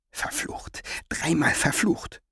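hushed breathy curse; whispered curse. A narrator's reading. Muttered curse in thought. (geflüsterter Fluch)

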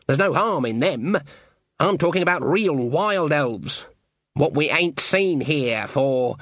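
gossiping village local; rustic villager voice. Acted. Villager character speaking.

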